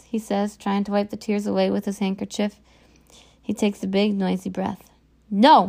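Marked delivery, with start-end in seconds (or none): 5.3-5.7 loud, anguished cry; mother crying out loud in anguish. A narrator's reading. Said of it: "my mom cries".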